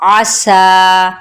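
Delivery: आसा with a whistle-like s; whistling seen. Shown as a demonstration. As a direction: bring the ain in आसा from the throat, then a whistling s. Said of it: "सीटी की सी आवाज़ के साथ". (आसा में सीटी जैसी सीन, गले से आइन)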